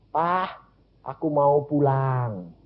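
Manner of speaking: slow, drawn-out retold plea; retold sick child. Sick daughter tells father she wants to go home, slow. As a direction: stretch the words out as the ailing child.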